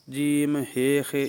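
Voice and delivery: "ہے، خے" with Urdu -ay endings instead of -aa; Urdu pronunciation. Shown as a demonstration. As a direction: recite "جیم، ہے، خے" as Urdu letter names. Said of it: "یعنی اس طرح کا یہ اردو تلفظ ہے".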